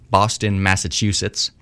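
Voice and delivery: failed Boston accent, sounds Southern; botched Boston accent. Shown as a demonstration. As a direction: try Boston, land somewhere down South. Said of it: "That was a Southern accent".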